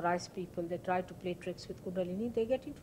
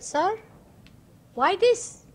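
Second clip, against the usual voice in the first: sharp challenge; 12 semitones higher, 11 dB louder, much slower than usual. Retold or imitated. Mother confronts disciple over fees.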